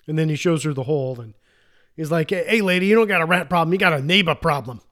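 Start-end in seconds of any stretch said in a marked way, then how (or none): 2.3-4.8 put-on New York accent. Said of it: "terrible New York accent".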